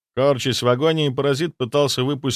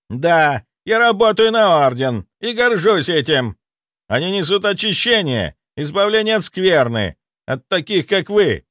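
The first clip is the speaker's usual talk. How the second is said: higher, louder venomous declaration; spiteful fury; 7 semitones higher, 4 dB louder than usual. A narrator's reading. Zaitsev furiously declaring his loyalty to the Order. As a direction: spit out your pride in the Order. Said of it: "Лицо исказилось злобой".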